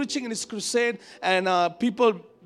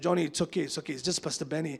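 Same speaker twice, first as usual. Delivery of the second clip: lower, softening reassurance; calm down an overwrought friend, trailing softer; soothing friend; 4 semitones lower, 6 dB quieter, faster than usual. Retold or imitated. Friend soothing him as he cries.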